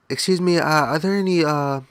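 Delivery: lightly mimicked polite caller; wife on phone. Wife asking a stranger over the phone, lightly mimicked.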